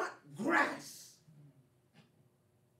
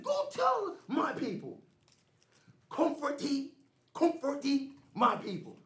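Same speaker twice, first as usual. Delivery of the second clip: God's command, preached. Acted. God speaks to Isaiah.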